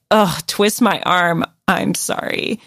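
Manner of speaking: slow, grudging fake apology; groan, then drag out a reluctant sorry; mock reluctant apology.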